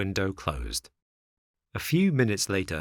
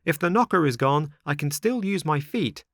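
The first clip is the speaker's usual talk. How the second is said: higher-pitched, indignant marionette; enraged; 7 semitones higher than usual. A narrator's reading. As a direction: vow it like a puppet in a temper. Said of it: "blind with rage".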